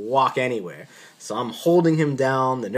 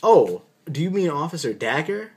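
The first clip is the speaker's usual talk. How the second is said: higher, lightly voiced casual attending; a hint of a cheerful boss asking; attending's cheery question; 5 semitones higher, 4 dB louder than usual. Attending asking the doctor, lightly voiced casual question. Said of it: "he's like".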